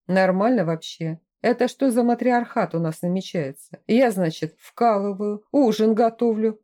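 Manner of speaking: lightly voiced indignant gopnik; a hint of an outraged street thug grumbling; indignant Russian street thug. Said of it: "Возмущённый голос гопника".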